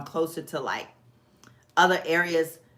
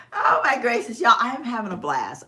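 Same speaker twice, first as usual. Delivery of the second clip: laughing; 6 semitones higher, 4 dB louder than usual. Real, not acted. Laughing, having a blast.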